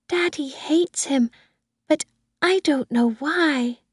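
put-on high-pitched little girl; Susan. A narrator's reading. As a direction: explain it like a small child. Little girl answers nanny.

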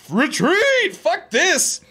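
high, panicked call to fall back; mock retreat call. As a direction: yell it like you're giving up the fight. Soldiers calling retreat in skit.

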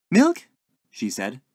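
very high, loud little question; interrupting landlady. A narrator's reading. Landlady cutting in while pouring tea, chirpy. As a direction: chirp it as a hostess's query.

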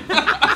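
loud cackle; high burst of laughter. Real, not acted. Laughs at story.

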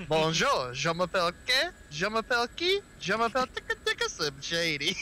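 mock classroom French, rising on each try; schoolroom French. Retelling high school French class to friends, joking schoolroom French accent. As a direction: imitate a student fumbling through French introductions. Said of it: "me in the class, c-, uh, basically translating".

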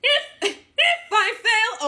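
high, loud growly belt; growl. Shown as a demonstration. Singing teacher demos the singer's growl, loud and high. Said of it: "here's where she starts to growl".

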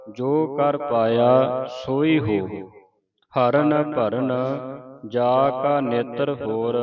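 measured reading with drawn-out line endings; scripture recitation. Shown as a demonstration. Teacher models Gurbani for learners, measured recitation. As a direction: recite sacred verse phrase by phrase.

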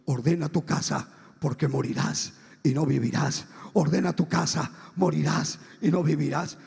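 low, firm divine pronouncement; voz de Dios. Retold or imitated. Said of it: "me acordaba de la voz de Dios". (voz grave y firme de Dios)

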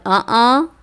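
two spoken mock hiccups; hiccup sound. Shown as a demonstration. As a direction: lightly imitate a hiccup, twice. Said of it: "હેડકીનો અવાજ". (હેડકીની હળવી નકલ)

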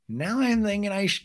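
high, put-on mimicking voice; mock ice-cold girl. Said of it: "the cold ice school girl".

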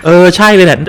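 loud, rising exclamations; excited outburst. Real, not acted. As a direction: react like you just spotted the monster. Recognizing scary enemy.

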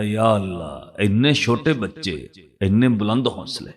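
quietly awed; retold wonder, held back; astonished. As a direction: murmur it in understated amazement. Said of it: "ਉਹ ਹੈਰਾਨ ਹੋ ਕੇ ਕਹਿੰਦਾ".

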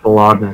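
"Bologna" as ba-LOG-na; pronounced hard g. Shown as a demonstration. Defending an old habit, pronounced hard g. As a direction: say "Bologna" with the g sounded before the n. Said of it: "there's a fucking G in it".

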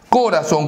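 "Corazón" with the stress wrongly on Co; stress on first syllable. Shown as a demonstration. Teacher testing stresses to find the tonic syllable, first-syllable stress on "Corazón". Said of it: "la mayor fuerza de voz".

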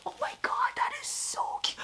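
very high gushing squeal over the pillow. Real, not acted. Squealing to her viewers over a cute pillow. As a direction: squeal it out, too cute to bear.

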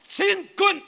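high, loud drill cry; soldier's shout, full force; military salute shout. Shown as a demonstration. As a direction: lead the crowd in an army salute. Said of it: "다시".

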